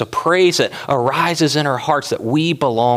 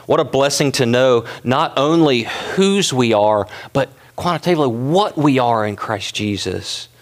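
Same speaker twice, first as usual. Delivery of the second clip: normal talking voice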